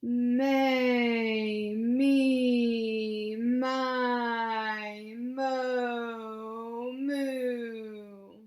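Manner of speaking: loud, very slow, level, linked "may me my". Leading a voice exercise with the listener, same tone throughout, connected. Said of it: "pretty much the same tone throughout".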